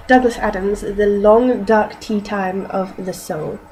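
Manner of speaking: slow, deliberate reading voice; story reading. Acted. Reading a novel aloud for an accent challenge, slow and measured. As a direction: read the title out slowly. Reads book title aloud.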